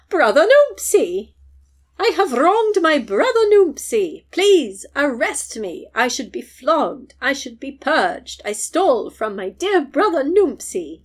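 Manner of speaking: high, loud, slow wailing plea; slow, dramatic mock wail; hammed-up screaming. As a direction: ham up a public spectacle. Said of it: "he just starts screaming".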